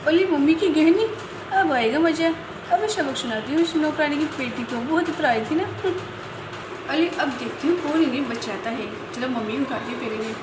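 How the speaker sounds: lightly voiced scheming little girl; mischievous girl. Chinki plotting to frame the maid, mildly gleeful. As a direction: plot a prank with childish glee.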